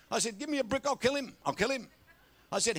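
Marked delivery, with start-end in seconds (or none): 0.4-1.9 high-pitched comic threat, easing off; mock outrage. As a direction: play someone exasperated enough to throw things. Retold comic threat to the boy.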